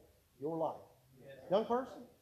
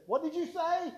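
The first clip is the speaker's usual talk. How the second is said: mock shout; 10 semitones higher than usual. Guard can't hear over alarm.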